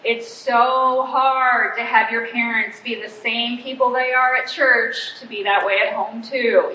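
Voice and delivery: slow, lightly mocking sarcasm; a mild hint of teenage sarcasm; sarcastic. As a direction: drag it out with dry sarcasm. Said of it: "just full of sarcasm".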